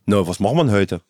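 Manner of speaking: low-pitched attempt at Saxon accent; Saxon dialect. Shown as a demonstration. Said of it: "Sächsisch". (Versuch auf Sächsisch, tief)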